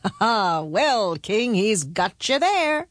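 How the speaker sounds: lightly voiced knowing jibe; a touch of sly amusement; winking, teasing crowd. A narrator's reading. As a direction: tease the king a little, drawing it out. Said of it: "smiled and winked as if to say".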